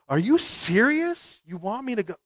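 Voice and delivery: slow, rising disbelief with a laugh; incredulous. Acted. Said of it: "And Naaman's like".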